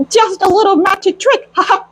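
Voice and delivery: a light, cheery hint of Mickey with a chuckle; Mickey's voice. Mickey tells the sorcerer it was just a trick, lightly voiced. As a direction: lightly play the mouse, pleased with his trick. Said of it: "I'm trying to use the Mickey's voice".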